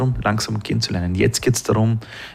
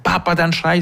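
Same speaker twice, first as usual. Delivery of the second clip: high-pitched imitation of a child threatening Papa; mock yelling child; 8 semitones higher than usual. Father imitates his child threatening to scream, high mock yell. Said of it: "Wenn mein Kind herumschreit".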